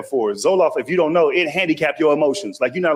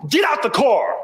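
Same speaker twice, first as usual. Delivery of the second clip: imitated yelling; 3 semitones higher than usual. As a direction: act out an angry man ordering someone out. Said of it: "starts yelling in the passenger seat".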